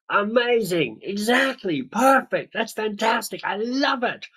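high, gushing praise piled word on word; super enthusiastic. Retold or imitated. Friend gushing over your worthy goal, super enthusiastic. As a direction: gush like a friend who loves the idea. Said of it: "that kind of super enthusiastic".

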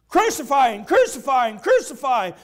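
loud repeated chant of a mob; crowd shout. Acted. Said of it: "Satan through the people".

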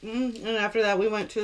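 chewing while talking; speaking around food; mouth full. Real, not acted. Seen 3: Drumstick in hand; lips pursed and working between words, as if chewing.

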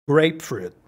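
"grapefruit" with weight on GRAPE; stress first part. Shown as a demonstration. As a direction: hit GRAPE, let "fruit" fall in "grapefruit". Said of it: "Mucha fuerza en la primera parte". ("grapefruit" con fuerza en la primera parte)

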